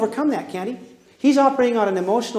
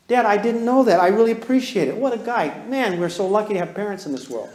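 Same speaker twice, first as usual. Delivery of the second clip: mock-grateful kid. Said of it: "He's not gonna say".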